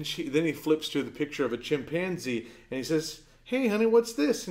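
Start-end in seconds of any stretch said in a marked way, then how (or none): 3.4-4.5 put-on higher-pitched sing-out to a small child; doting father. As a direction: voice a dad coaxing his little girl. Father quizzing his small daughter.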